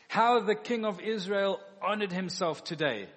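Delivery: loud, biting sarcastic jab; a wife's sarcasm thrown at her dancing husband. Retold or imitated. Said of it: "That's sarcasm".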